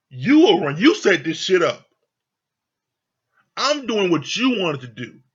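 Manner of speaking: heated mock confrontation, emphatic on each "you"; indignant role-played telling-off; acted scolding. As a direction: tell them off as if they were here. Acts out confronting Lindsay.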